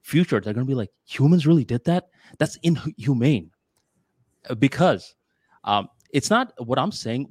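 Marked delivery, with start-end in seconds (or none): 1.1-3.5 higher-pitched incredulous quote; mock disbelief. People of the future looking back on humans, incredulous. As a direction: act out people appalled by the past.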